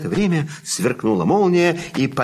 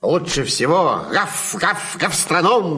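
puppy voice; 5 semitones higher, 4 dB louder than usual. Acted. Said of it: "сказал щенок Тявка".

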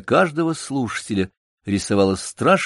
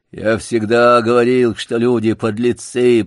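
ворчание; 5 dB louder than usual. Acted. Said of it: "проворчал мышастый дог".

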